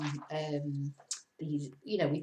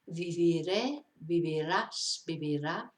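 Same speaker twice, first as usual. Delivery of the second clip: viviré, vivirás, vivirá, each stressed on its final syllable; stress on last syllable. Shown as a demonstration. Teacher showing learners where the accent falls, last syllables stressed. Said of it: "see where the stress is in it".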